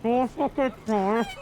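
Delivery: put-on snarling Welsh accent, muffled; aggressive Welsh accent. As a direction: threaten him in a hard Welsh accent. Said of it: "aggressive Welsh accent".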